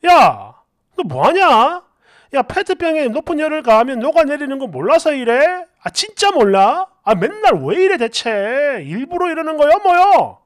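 exasperated, incredulous telling-off; acted scolding. Husband catching wife melting a plastic bottle, exasperated scolding.

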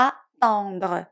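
"attendre" split as a, then ton-dre; teacher's careful French "attendre", a-ton-dre; a first, then ton. Shown as a demonstration. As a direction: say "attendre" with a short a before a single-t ton. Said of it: "ออกเสียงอะก่อน แล้วค่อยออกเสียงตอง".

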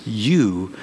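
husband whispering sweetly to his wife; tender husband whisper. Retold or imitated. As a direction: breathe it tenderly to her. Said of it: "Your husband says".

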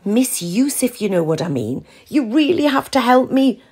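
pleading. A narrator's reading. Val pleading with Ruth on the phone for help. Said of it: "Val pleaded".

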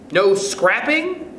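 high, slow, tentative question; timid question. A narrator's reading. Agnes asks Stuart about a law, timidly. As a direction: ask timidly, drawing it out high. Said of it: "asked Agnes tim-, timidly".

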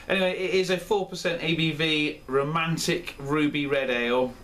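reading the label in a mock Yorkshire accent; a half-hearted Yorkshire accent for the label; crap Yorkshire accent. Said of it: "in an attempt to do it in a Yorkshire accent".

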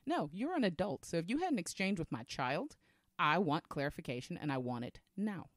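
firm, no-nonsense demand; authoritative mom voice. Retold or imitated. Mother demanding an explanation from another adult, authoritative. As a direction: lay it down as a mother in charge. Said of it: "when I used my authoritative voice".

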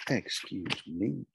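very slow, drawn-out "Excuse me"; affronted teacher. Acted. Teacher challenged by a pupil, slow affronted question. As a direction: stretch each word out, ending on a rise. Teacher's first play in power struggle.

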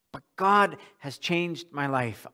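slow, earnest, heartfelt; mean every word of it; sincere. Shown as a demonstration. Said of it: "talk in a monotone voice like this".

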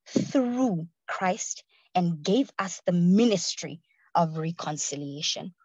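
slow, weighty reading of the verse; scripture reading. Acted. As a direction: read each phrase slowly like holy words.

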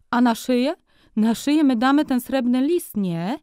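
high, loud, pushy salesman's patter; high-pitched bargaining merchant; haggling furrier. A narrator's reading. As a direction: talk him into the cheap fur. Furrier suggests a collar.

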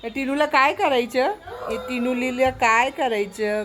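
pretending to be fed up with the parrot; mock exasperation. Real, not acted. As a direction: throw up your hands at the naughty bird.

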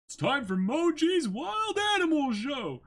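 high, loud ringmaster cry; excited showman shout. Acted. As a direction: announce the show like a thrilled circus host. Announcing the wild animal show.

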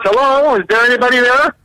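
high, lilting call at the door; polite caller knocking. Acted. Visitor knocking before going in, high polite call. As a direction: call in to check who's home. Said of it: "You have to knock on wood first".

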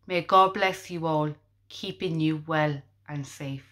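measured poetry reading, each verse opening lifted then falling; poem recital. Acted. Host reciting a tribute poem to health workers, measured recital. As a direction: recite it in short, paused phrases.

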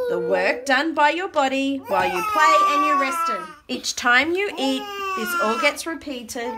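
animated rhyming read-aloud; reading to children. Acted. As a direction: read the verse out for little listeners. Reads rhyming book aloud.

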